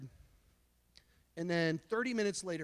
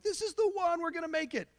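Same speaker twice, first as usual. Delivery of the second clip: lovestruck dreamer; 7 semitones higher, faster than usual. Retold or imitated. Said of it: "you're like".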